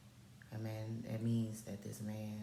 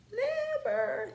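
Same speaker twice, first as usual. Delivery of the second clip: "Never" pitched sky-high and louder; emphatic NEVER; 6 dB louder than usual. Real, not acted. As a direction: punch "Never" high and loud. Emphatic repeat of her denial.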